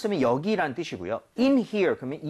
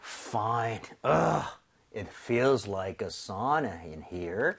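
slow demo read; 6 semitones lower, much slower than usual. Shown as a demonstration. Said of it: "한번 만나보겠습니다".

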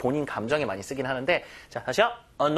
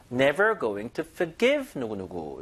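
forgive with the weight on the second syllable, GIVE; stress on forGIVE; 4 semitones lower, much slower than usual. Shown as a demonstration. Teacher showing students where forgive takes its stress. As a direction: land the beat on the back half of forgive. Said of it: "Forgive 강세 뒤에".

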